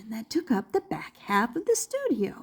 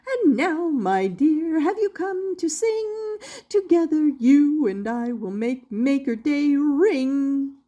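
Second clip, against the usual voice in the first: lightly voiced jolly inventor; 4 semitones higher than usual. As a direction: greet the guests like a cheery showman. Doctor Marvel's rhyming voice.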